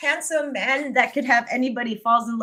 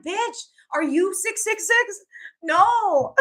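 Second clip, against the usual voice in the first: sassy retort; 8 semitones higher, slower than usual. Retold or imitated. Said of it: "I'm like".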